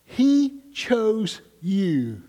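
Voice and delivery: very slow, tender stress on he; gentle emphasis. Retold or imitated. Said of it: "What she was saying to them".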